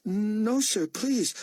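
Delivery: put-on high, pleading young voice; frightened plea. A narrator's reading. Boy begging Buck, frightened. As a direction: beg not to be hurt.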